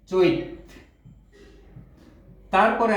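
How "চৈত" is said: চৈত with a doubled, held ত; extra t. Shown as a demonstration. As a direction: say চৈত with an added ত. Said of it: "বাড়তি একটি ত আসবে". (বাড়তি ত সহ চৈত)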